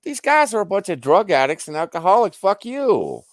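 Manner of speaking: angry rant. Retold or imitated. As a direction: fire it back at them hotly.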